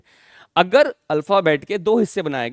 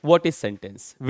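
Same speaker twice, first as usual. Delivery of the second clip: very slow, drawn-out question; drawn-out teacher question; slow pointed question; 6 semitones lower, much slower than usual. Shown as a demonstration. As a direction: make them listen to each word. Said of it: "ध्यान से सुनना".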